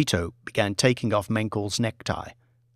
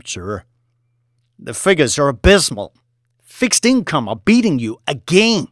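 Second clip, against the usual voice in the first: voiced office scene; 2 semitones higher, 4 dB louder than usual. Boss and trader dialogue.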